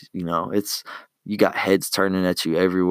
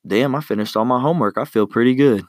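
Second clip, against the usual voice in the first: higher, brighter and a bit louder, pleased with yourself; proud relief; 4 semitones higher, 3 dB louder than usual. Pretend. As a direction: sound chuffed that it's all done. Imagined student after finishing homework.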